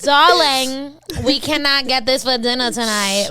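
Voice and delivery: loud, high mock British accent; talking to a cashier at TJ Maxx in a fake British accent; posh British accent. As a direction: play a grand British lady shopping. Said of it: "speaking in that accent".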